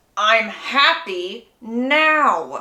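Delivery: forced through gritted, clenched teeth, drawn out. Reading a book character's reply when told she's hurting Jacob's feelings: through gritted teeth. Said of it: "she says through gritted teeth".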